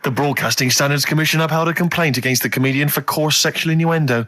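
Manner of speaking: lightly done newsreader voice; a hint of a formal news bulletin; mock news read. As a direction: read it out like a newsreader, only half committed. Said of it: "Imagine this is the news and I'm reading it".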